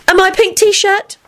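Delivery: very high, slow amazed question; astonished. A narrator's reading. Elizabeth listing missing clothes, astonished. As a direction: squeal the question in disbelief. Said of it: "looked astonished".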